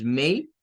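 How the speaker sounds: "may" with a long ay glide; teacher models "may"; model syllable. Shown as a demonstration. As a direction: say "may" as a clear diphthong. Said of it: "un sonido largo para esta A".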